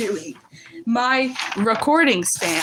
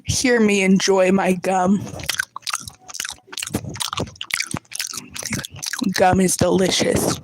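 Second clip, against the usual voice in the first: chewing gum; 2 semitones lower than usual. Real, not acted. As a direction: talk through noisy chewing. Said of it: "here's some smacking A S M R".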